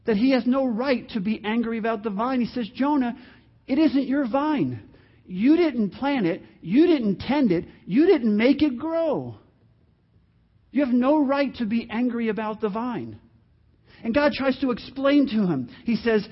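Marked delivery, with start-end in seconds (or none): 2.7-13.2 measured, patient but firm explaining; God. Acted. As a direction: lay it out point by point with pauses. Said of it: "Then God patiently explains to Jonah".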